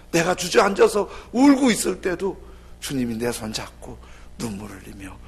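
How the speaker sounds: usual speaking voice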